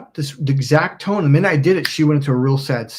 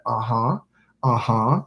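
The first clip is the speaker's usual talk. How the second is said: anchoring uh-huh; 4 semitones lower, 3 dB quieter, slower than usual. Retold or imitated. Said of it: "And I kept anchoring".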